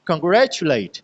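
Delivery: कांग्रेचुलेट with कां and चु weak, ग्रे stressed; unstressed syllable demo. Shown as a demonstration. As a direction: punch ग्रे in कांग्रेचुलेट, pass lightly over कां and चु. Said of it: "ये unstressed syllables है". (कांग्रेचुलेट में कां और चु बिना ज़ोर, ग्रे पर ज़ोर)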